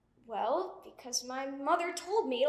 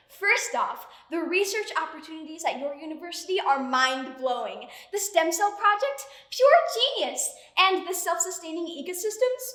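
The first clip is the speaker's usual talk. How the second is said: pretentious. Acted. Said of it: "now you sound completely pretentious".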